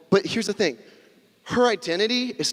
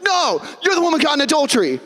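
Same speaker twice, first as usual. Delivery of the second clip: blunt reply; 9 semitones higher than usual. Retold or imitated. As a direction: deliver the bad news bluntly. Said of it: "And be like".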